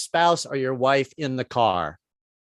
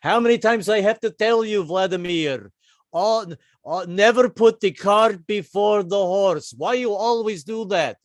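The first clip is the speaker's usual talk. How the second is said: a stern father drilling his son, slowed on the proverb; an exasperated father scolding his stubborn son; 5 semitones higher than usual. Acted. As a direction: lecture Vladimir like an exasperated dad. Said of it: "It was like".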